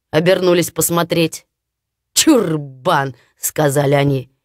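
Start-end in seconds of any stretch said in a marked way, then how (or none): 2.1-3.1 scornful brothers. Acted.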